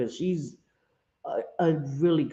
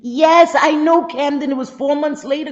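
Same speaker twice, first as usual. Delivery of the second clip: walrus impression; 9 semitones higher, 9 dB louder than usual. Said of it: "that's a walrus impression".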